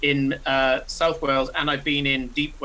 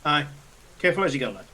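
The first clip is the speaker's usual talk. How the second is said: put-on light northern accent, easygoing; northern English accent; faster than usual. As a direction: say it like an unbothered northerner. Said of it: "I'm doing the northern voice".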